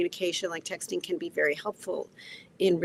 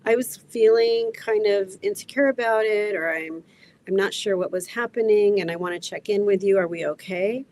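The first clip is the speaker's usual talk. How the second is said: gentle check-in; 3 semitones higher than usual. Shown as a demonstration. Partner gently checking in after phone use. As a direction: calmly raise a worry, no blame. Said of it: "you can very gently say".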